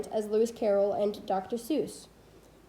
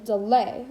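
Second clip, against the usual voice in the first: delay, slowly, leaning on LAY; light de, strong lay in delay; stress on second syllable; 3 dB louder than usual. Shown as a demonstration. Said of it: "unstressed syllable followed by a stressed syllable".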